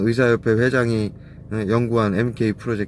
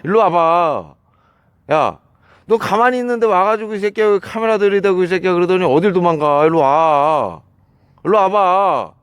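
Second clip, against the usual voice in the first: high, loud furious yelling; furious shouting; 9 semitones higher, 7 dB louder than usual. Real, not acted. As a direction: yell after him at full voice. Shouting after the fleeing man.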